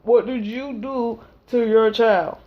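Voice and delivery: slow, suspicious officer voice; lightly voiced cop; stern official. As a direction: drag it out accusingly. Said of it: "And they're like".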